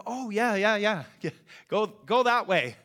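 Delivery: bright, loud and high, a quick laugh in it; eager strangers. Retold or imitated. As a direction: sell the eager helpful answer.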